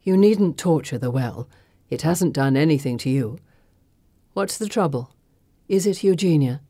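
cold, low and controlled; steely sorceress rebuke. Acted. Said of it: "Circe's voice is steely".

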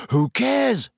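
high, impatient brush-off. A narrator's reading. Ron brushing off Hermione's worries, impatient. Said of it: "said Ron impatiently".

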